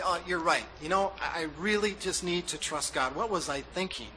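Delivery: lightly mocking, sarcastic wife's reply; mock agreement. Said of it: "I would say".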